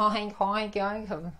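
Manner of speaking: light mock oinks as a nasal drill; pig oinking. Shown as a demonstration. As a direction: practise the nasal sound like a little pig. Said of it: "dá pra praticar isso".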